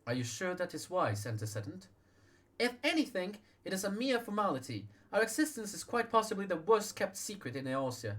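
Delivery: proclaiming leader. Acted. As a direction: announce it like a public vow.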